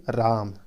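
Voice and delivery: "राम" with the आ held longer; prolonged vowel. Shown as a demonstration. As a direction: stretch the vowel in "राम" beyond a normal long vowel. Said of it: "पुलिस स्वर के माध्यम से बोलें". ("राम" का आ लंबा खींचकर)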